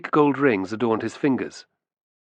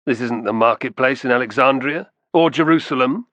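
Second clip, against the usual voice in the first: sneering, rising in pitch and louder on Jerusalem; 2 semitones higher, 4 dB louder than usual. Acted. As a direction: sneer at them, scornful. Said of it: "the Vilicus sneered".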